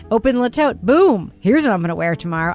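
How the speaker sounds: delighted reveal for the listeners; excited ad pitch. Acted. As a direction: sell the moment of opening the box. Acting out the ad moment.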